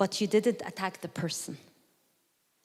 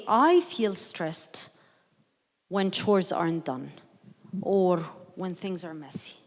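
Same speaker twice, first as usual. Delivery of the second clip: softened I statement; 2 semitones lower than usual. Shown as a demonstration. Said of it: "let's soften it".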